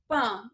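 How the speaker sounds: "Pan" with a closed, nasal a; closed-timbre "Pan", as in pântano; closed vowel. Shown as a demonstration. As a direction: say "Pan" without opening the mouth much. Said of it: "você não abre muita boca pra pronunciar o pan".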